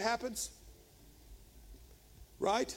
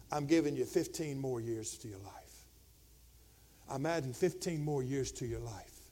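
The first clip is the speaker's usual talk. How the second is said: low, soft, solemn promise; hushed pronouncement; 7 semitones lower, 6 dB quieter than usual. Retold or imitated. Preacher voices Isaiah telling Hezekiah of mercy, hushed pronouncement. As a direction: deliver it gently, far down in pitch. Prophet delivers God's mercy.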